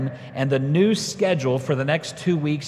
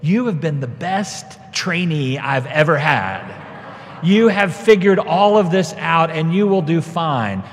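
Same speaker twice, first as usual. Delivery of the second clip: emphatic, louder, word-by-word praise; imagined praise; 5 dB louder than usual. Retold or imitated. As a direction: pronounce glowing approval on an imagined trainee. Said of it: "I was expecting her to look at me and say".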